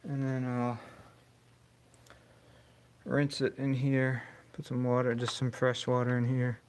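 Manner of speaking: talking through a welding mask; muffled voice behind a face mask. Real, not acted. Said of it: "can't talk too good with this mask on".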